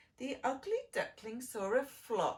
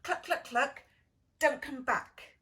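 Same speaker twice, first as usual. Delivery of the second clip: louder clucking hen sending him off; jeering hen; 3 semitones higher, 8 dB louder than usual. Acted. Hen chasing the duckling off, loud clucking jeer. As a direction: shoo him away with a cluck. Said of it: "said the hen".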